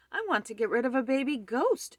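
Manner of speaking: high, loud insistent complaint; shout. A narrator's reading. Man on the phone to police about ghost, shouting. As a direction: shout it at the listener. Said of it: "shouted Mister Frizzle".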